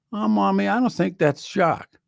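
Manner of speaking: high mock kid voice; doubtful child. Kids telling Mommy the dog isn't Jacques, high mock child voice. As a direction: play the kids not buying it.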